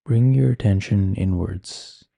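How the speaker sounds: calm, unhurried meditation guiding with long pauses; guided meditation. Acted. Meditation teacher settles listeners with eyes closed, calm guiding voice. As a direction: ease listeners inward, leaving space between phrases.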